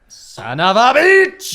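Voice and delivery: loud, drawn-out frustrated curse. Real, not acted. Player cursing a failed intelligence roll, loud and drawn out. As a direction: let the failed roll sting.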